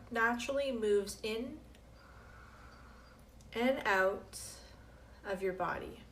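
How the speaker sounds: slow, measured meditation guiding with long pauses; guided meditation. Acted. Teacher guiding listeners through breath and drifting thoughts, calm meditation voice. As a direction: lead the breathing calmly, phrase by phrase.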